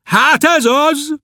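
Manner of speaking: high, slow, bitter outcry; anguished cry. Acted. Berzsián crying out bitterly at Klopédia, high and slow. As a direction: wail it in despair. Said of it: "ordított fel keservesen".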